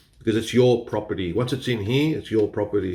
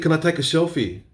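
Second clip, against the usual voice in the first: repeated cheeky question; 7 semitones higher than usual. Retold or imitated. Repeating the selfie question to the bartender, more insistent. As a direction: lean in and repeat it pointedly. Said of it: "I said".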